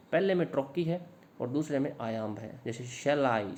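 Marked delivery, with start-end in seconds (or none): 2.9-3.6 "shall I" as a trochee, SHALL strong and I falling away; stress on SHALL. Shown as a demonstration. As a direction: lean on "shall", let "I" drop. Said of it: "शेल पर stress देना पड़ेगा". ("shall" पर ज़ोर, "I" पर नहीं)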